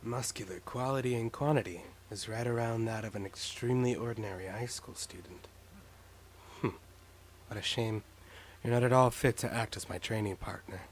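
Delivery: lightly voiced stern fighter; a hint of a gruff martial artist; Sakura voice. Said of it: "The ultimate martial artist".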